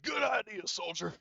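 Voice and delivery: high, loud soldier's cheer, easing off; Horg. Acted. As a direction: call out hearty approval in character, pitched high. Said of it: "Horg is like".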